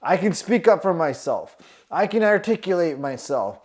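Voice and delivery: self affirmation. Retold or imitated. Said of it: "Add in the affirmations".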